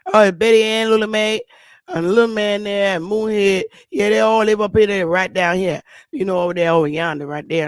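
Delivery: imitated thick Southern talk, words run together; Southern dialect. Southern woman telling census taker who lives where, Southern dialect. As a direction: rattle off the household in a Southern accent. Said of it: "They don't understand that shit".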